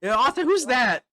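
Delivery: loud, high in-character challenge; startled demand. Acted. Mikey notices Leo's unknown companion, startled loud demand. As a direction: demand it at a near shout.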